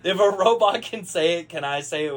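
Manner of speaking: lips still, ventriloquist style; talking with mouth closed. Pretend. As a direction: speak without moving lips. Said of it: "Does it count if I don't move my lips?".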